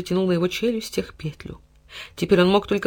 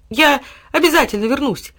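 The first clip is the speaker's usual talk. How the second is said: displeased grumble; 9 semitones higher, 5 dB louder than usual. A narrator's reading. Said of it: "недовольно проворчал Тило".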